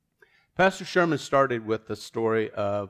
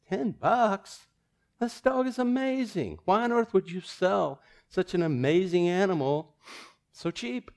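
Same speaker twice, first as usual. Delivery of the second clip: much higher, incredulous outcry; can't believe the price, pitch way up; shocked disbelief; 9 semitones higher than usual. Retold or imitated. Buyer protests to the owner, high incredulous outcry.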